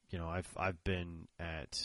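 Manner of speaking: normal talking voice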